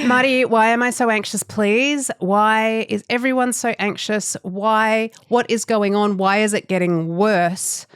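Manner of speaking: high-pitched, exaggerated pleading; mock desperation. Begging Marty to explain anxiety, mock-desperate. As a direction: plead as if at wits' end.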